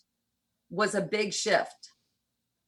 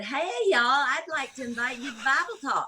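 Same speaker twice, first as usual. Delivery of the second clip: put-on Southern accent; 5 semitones higher than usual. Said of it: "my Southern accent".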